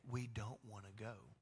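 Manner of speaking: low, soft, sad echo of the refusal; God softly recalling the people's refusal; quiet quoted refusal. Retold or imitated. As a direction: let it fall quietly, disappointed. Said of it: "And you said".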